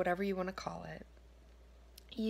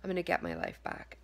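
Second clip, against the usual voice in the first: reassuring self-talk; faster than usual. Shown as a demonstration. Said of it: "just telling yourself for one day".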